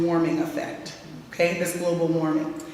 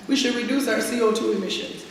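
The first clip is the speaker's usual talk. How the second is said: lightly mimicking a stiff activist, higher; mocking jargon; 4 semitones higher than usual. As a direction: poke fun at the climate-speak phrasing. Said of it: "Who even talks like that?".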